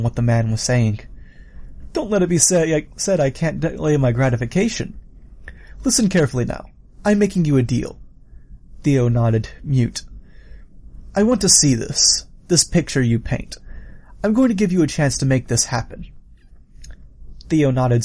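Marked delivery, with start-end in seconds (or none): 1.9-8.0 higher, animated killer voice; villain offering a deal. Acted. 11.1-16.1 higher, animated killer voice; villain offering a deal. Acted.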